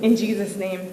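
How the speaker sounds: slow, earnest prayer line by line for the room to echo; led prayer. Acted. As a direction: pray slowly so they can repeat. Leads a prayer to repeat.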